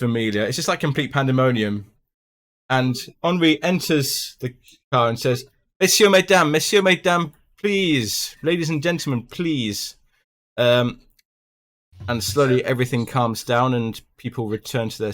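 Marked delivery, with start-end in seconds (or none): 5.8-10.0 raised, higher French conductor calling for calm; train conductor. Acted. Conductor calming panicking passengers, raised French-tinged voice.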